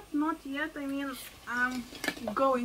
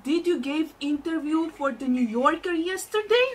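imitating an excited aunt, higher voice; raised-pitch, eager retold question; 4 semitones higher, 6 dB louder than usual. Aunt asking her about the interview, excited. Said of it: "And she was like".

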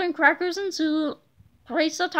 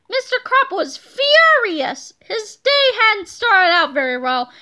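dramatic narration; 5 semitones higher, 6 dB louder, slower than usual. A narrator's reading. Narrator conveys Krupp's fury.

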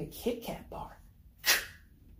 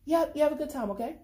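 caring mom; 8 semitones higher, 4 dB louder, faster than usual. Acted. Mom on phone.

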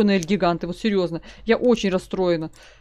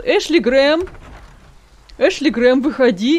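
calling out; 2 semitones higher, 3 dB louder, slower than usual. Pretend. Calling the hiding Ashley out.

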